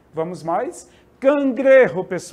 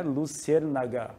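slow demo word; 4 semitones lower, 5 dB quieter than usual. Shown as a demonstration. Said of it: "Bem diferente o nome".

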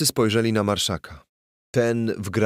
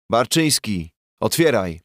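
louder demand to open up; shouting through the door; 2 semitones higher, 3 dB louder than usual. Acted. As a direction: bang on the door with your voice. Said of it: "krzyk bandury".

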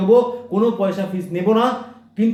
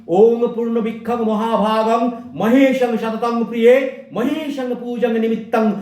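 mantra recitation; 3 semitones higher than usual. Shown as a demonstration. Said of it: "বেলপাতার মন্ত্র কি".

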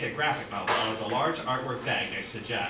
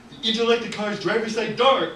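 high, louder excited narration; dramatic reveal; 10 semitones higher, 5 dB louder than usual. A narrator's reading. Narrator revealing what his eyes halted on, excited. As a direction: announce it with mock alarm.

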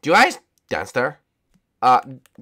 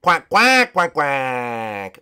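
excited cartoon penguin quacking; Gunter; much slower than usual. Penguin answers about the last princess, quacking. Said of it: "All right, Gunter".

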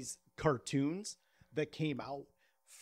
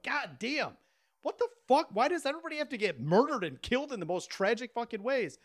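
mock outrage; 5 semitones higher than usual. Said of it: "I'm like".

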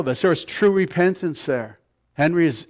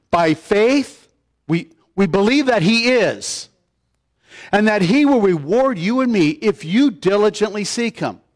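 raised, emphatic preaching pitch; higher-pitched pulpit quotation; scripture declamation; 4 semitones higher than usual. Real, not acted. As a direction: proclaim the verse with conviction.

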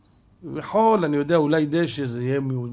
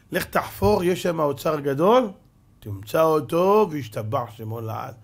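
dream voice; 3 semitones higher, 4 dB louder than usual. Acted. Voice in the dream speaks.

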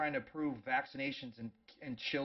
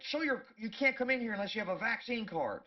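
mock bouncer; 8 semitones higher, 4 dB louder than usual. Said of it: "they're like".

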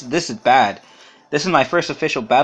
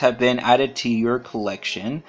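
slow flat robotic reading; 2 semitones lower, slower than usual. Acted. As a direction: read the text like a robot, monotone. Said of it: "I read that like a robot".

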